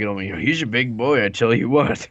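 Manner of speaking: lightly Southern, rising at the end; southern accent. Shown as a demonstration. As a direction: say it like a NASCAR fan. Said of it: "you gotta say it like".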